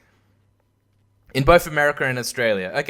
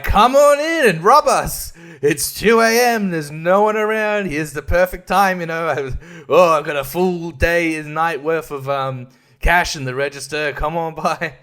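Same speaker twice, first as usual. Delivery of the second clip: inviting shopkeeper; 2 semitones higher, 4 dB louder than usual. Retold or imitated. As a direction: cheerfully invite the robbers in, slowly. Shop voiced inviting robbers.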